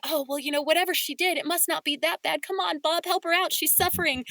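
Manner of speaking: high, pleading mock voice; imitating a pleading listener. Listener urging Bob to help Samantha, pleading mock voice. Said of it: "the listener, to an extent, is probably going".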